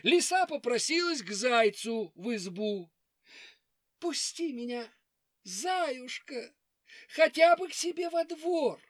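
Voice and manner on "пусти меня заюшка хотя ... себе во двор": sly fox voice. Acted. Fox begs the hare.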